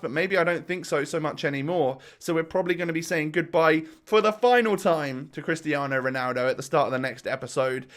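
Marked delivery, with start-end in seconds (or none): 2.2-7.9 muffled voice. Real, not acted. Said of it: "maybe a little bit muffled commentary".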